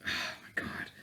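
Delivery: exasperated whisper; soft whispered oh my God. Real, not acted. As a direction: breathe it out, exasperated. Exasperated aside.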